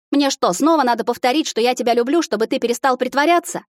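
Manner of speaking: half-teasing scolding plea; anxious pleading. A narrator's reading. Andy shaking Alex awake, high anxious plea.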